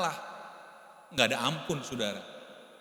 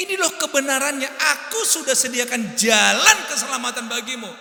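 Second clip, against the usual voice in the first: higher and louder, rising to a reproachful cry; God calling out to those who ignore him; the Lord's wounded outcry; aggrieved God; 10 semitones higher, 7 dB louder than usual. Acted. God voiced, rebuking ignoring people.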